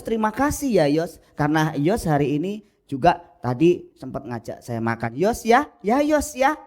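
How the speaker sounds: overdoing the name Yos in every phrase; mocking a prayer habit by thanking a friend the same way; mock repetitive thanks. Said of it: "Kalau saya ngomong sama Yos".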